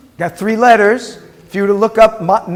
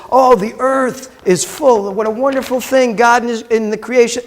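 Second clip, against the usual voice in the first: a hint of a gushing preacher, pitched higher; mock gushing preacher; 3 semitones higher than usual. Teacher mocking a wrong sermon, lightly gushing preacher voice. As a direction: lightly play the preacher who missed the point. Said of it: "we might preach a message that says".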